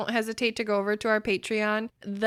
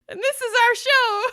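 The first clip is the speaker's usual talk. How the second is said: much higher, laughing; giggling through the intro; 10 dB louder than usual. Real, not acted. Host giggling while introducing the show.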